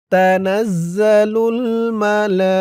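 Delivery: slow melodic chant; Quran recitation. Shown as a demonstration. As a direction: stretch each word like tilawah. Recites the next verse.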